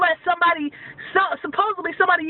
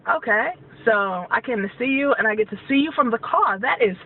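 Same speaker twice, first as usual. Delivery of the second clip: sarcastic retort; 2 semitones lower than usual. Retold or imitated. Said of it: "That's what I told her".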